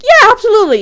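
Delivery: high, eager retold "yeah"; imitating a keen, upbeat yes; enthusiastic agreement.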